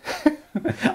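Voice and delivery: squeaky burst of laughter; high giggle. Real, not acted. Laughs after saying he's done.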